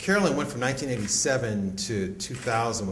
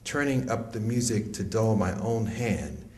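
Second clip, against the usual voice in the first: measured, deliberate poem recital; poetry reading. Acted. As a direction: read it like a spoken word poem. Reads a poem aloud.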